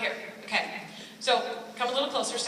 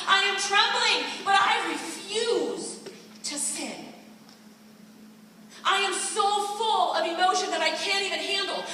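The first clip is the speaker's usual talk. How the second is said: impassioned plea; 4 semitones higher than usual. Acted. Voicing David's inner struggle.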